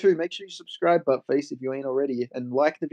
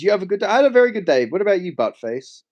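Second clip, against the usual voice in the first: teasing; 4 semitones higher, 5 dB louder, faster than usual. Pretend. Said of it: "I'm just gonna say your name".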